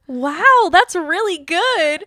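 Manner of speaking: high, slow, drawn out praise; imitating a singer. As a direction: stretch out that's really good. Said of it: "I was thinking of the".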